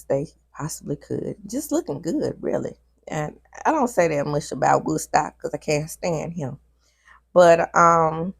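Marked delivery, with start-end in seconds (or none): 3.1-6.6 whispered aside. Real, not acted. Aside about disliked castmember.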